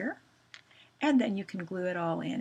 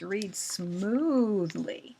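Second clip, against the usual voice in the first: smoothly; much slower than usual. Shown as a demonstration. Teacher models the word smoothly.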